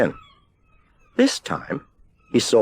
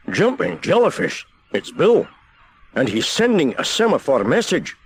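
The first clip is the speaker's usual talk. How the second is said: excited keeper; 7 semitones higher than usual. A narrator's reading. Keeper spots the signal.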